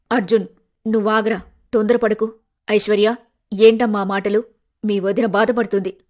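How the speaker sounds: a hint of a worried old mother stepping in; mother pleading. Mother restrains son, scolds daughter-in-law.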